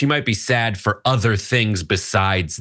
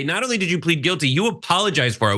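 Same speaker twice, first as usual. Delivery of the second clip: quick mock accusation; 5 semitones higher, faster than usual. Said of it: "everybody could say".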